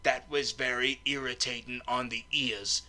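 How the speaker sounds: low, quiet grumbling aside; deadpan complaint. Acted. Heckler complaining about the mouse voice, deadpan. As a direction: drop low and soft, unimpressed.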